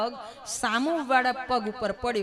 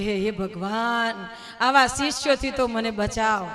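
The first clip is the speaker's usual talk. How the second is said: weary lament; slower than usual. Acted. Guru laments his disciples.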